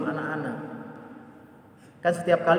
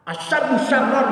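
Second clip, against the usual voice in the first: quoting the Prophet; 10 semitones higher, 6 dB louder, slower than usual. Retold or imitated. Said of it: "kata Rasul".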